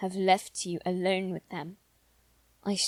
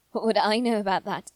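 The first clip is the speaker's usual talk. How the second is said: fast, louder, bitter retort; quick, raised, sarcastic; defensive retort; 5 dB louder, faster than usual. Acted. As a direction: snap back defensively.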